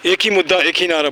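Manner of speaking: leading a call-and-response slogan, each half set apart. Shown as a demonstration. Teacher leads the group in the park tagline, slogan call. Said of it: "हमारे साथ tagline बताओ".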